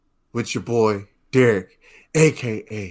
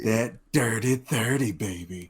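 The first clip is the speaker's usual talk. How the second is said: sultry voice; 4 dB quieter, slower than usual. Acted. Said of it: "Speak to you in this sultry voice".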